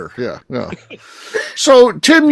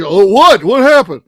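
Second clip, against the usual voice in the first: concerned coworker; 6 dB louder than usual. Retold or imitated. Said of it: "but he".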